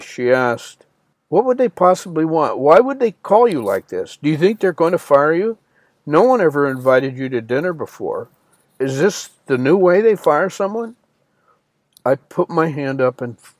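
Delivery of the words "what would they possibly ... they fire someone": higher-pitched, worried and serious. Retold or imitated. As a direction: ask with grave concern, pitch raised. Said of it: "In a very serious voice".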